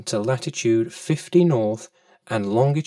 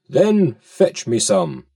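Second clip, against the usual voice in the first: whale command; 6 dB louder than usual. Acted. Whale orders the fish.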